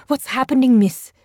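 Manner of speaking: high, loud scared cry; frightened cry. A narrator's reading. Cadet crying out to his teacher, frightened. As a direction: call out in panic. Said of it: "cried one of the boys".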